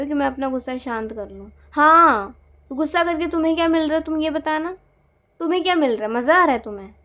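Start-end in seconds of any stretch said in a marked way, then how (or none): 1.7-6.9 higher, much louder fast yelling; furious, fast yelling; angry shout. Acted. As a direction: fire questions in a rage. Quarrel escalates, demanding answers.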